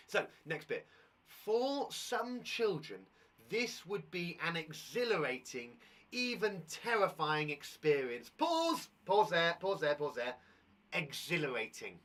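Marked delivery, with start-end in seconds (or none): 1.3-8.3 slow storyteller read; drawing out each word of the story; slow, measured read-aloud. Acted. 8.3-10.4 loud teacher call to stop reading; loud pause call. Shown as a demonstration. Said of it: "I'll pause at the correct places".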